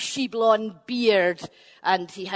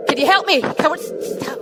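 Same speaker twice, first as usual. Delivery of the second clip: desperate stammering plea; 5 semitones higher, 5 dB louder, faster than usual. Acted. Finn begging, stammering.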